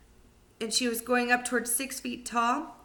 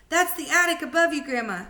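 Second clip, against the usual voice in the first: fast, higher, louder warning call; 7 semitones higher, 6 dB louder than usual. Acted. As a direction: shout up to grandma in a hurry. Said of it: "George called out".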